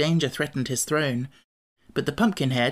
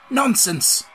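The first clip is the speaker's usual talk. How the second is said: high-pitched dismissive exclamation; exclaiming; 9 semitones higher, 4 dB louder than usual. A narrator's reading. Scarecrow dismisses Pumpkinhead's fear of cooking, exclaiming. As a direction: brush the fear aside emphatically. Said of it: "exclaimed the Scarecrow".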